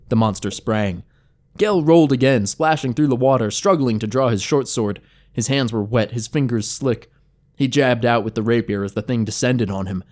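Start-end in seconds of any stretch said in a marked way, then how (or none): none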